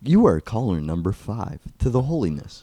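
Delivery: mock Indian call-centre operator; lilting put-on Indian accent. Call-centre worker greeting a caller for confession, mock Indian accent. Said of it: "just a call center Indian".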